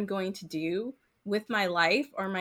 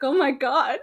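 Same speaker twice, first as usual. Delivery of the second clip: retold distress; 6 semitones higher, 8 dB louder than usual. Retold reaction to fox crying.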